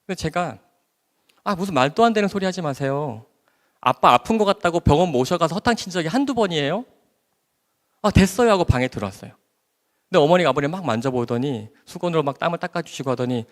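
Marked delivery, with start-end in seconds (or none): 1.4-8.5 dismissive irritation. Retold or imitated. Brushing off mother's worry.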